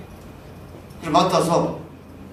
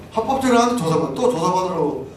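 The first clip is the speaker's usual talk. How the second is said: indignant repeat; 2 semitones higher than usual. Real, not acted. Repeats louder, higher.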